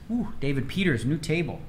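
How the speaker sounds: normal talking voice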